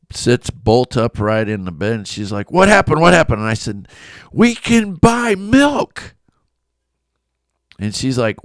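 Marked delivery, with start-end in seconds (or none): 2.5-3.4 high, loud alarmed question; jolted awake and alarmed; wife bolting upright in alarm; startled. Retold or imitated. 4.3-6.2 very high, slow, stretched-out joy; husband telling his sleepy wife the big news; overjoyed. Retold or imitated. Husband bursting with good news.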